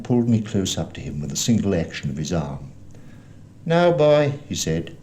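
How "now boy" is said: loud, high, cold command; cruel blind beggar. A narrator's reading. Blind man to captured boy, cruel high command. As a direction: order the boy about, pitched up. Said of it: "a voice so cruel and cold and ugly".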